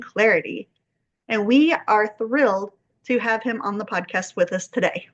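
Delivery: measured, formal host introduction with stressed key words; podcast intro read. Acted. Host introducing a poet to listeners, formal podcast intro read. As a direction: read out a guest bio in phrases, pausing between them.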